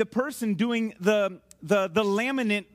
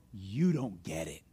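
slow, low, softer pronouncement; not angry; 7 dB quieter, slower than usual. Acted. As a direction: say it slowly and gravely, without anger. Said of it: "it was not an angry one".

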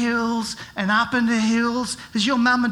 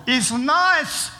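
sly wolf voice. Acted. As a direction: play the wolf sweetly luring the sheep. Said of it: "like this one here".

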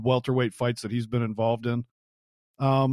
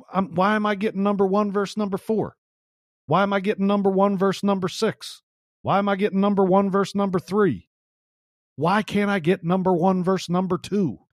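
higher-pitched repetitive complaint; bitching and moaning; 5 semitones higher than usual. Acted. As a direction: moan it as a repeated rhetorical gripe. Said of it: "I'll be bitching and moaning".

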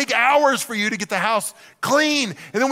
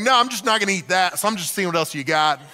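careless browsing. Retold or imitated. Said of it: "You're like".

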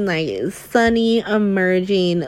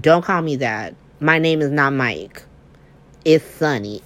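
menacing Sonny; 4 semitones lower than usual. Retold or imitated. Voicing Sonny's mob-boss reveal.

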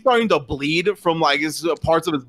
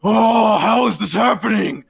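stunned; 5 semitones higher, 3 dB louder, slower than usual. Acted. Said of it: "He goes".

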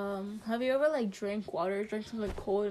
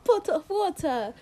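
playful British-style bottle of water; lightly put-on British accent; 4 semitones higher than usual. Shown as a demonstration. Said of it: "the way I say water bottles".

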